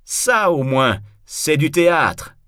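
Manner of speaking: loud, high delighted exclamation; joyful shout. A narrator's reading. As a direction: cry out as a thrilled spectator. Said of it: "crient leur joie".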